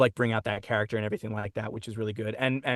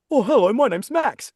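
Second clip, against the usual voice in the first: much higher, slow cartoon voice with an Australian accent; Max voice; 11 semitones higher, 5 dB louder than usual. Shown as a demonstration. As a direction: pitch it way up with an Australian twang. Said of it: "And so it goes up like this".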